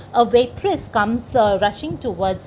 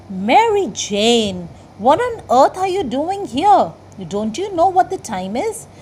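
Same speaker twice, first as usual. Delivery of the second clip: louder, higher call to a late coworker; waitress shouts at Mary Jane for being late; waitress scolding; 4 semitones higher, 5 dB louder than usual. Acted. A waitress scolding her late coworker, loud and high. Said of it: "she starts screaming at her".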